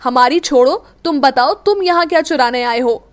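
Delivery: loud, defiant comeback; haughty and unafraid; cocky. Acted. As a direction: throw it back at him with swagger. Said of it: "Meera ने भी अकड़ कर कहा".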